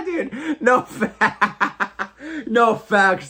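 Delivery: high, breaking laughter through the words; cracking up while admitting it; laughing hard. Real, not acted. Streamer laughing at chat's roast of his English.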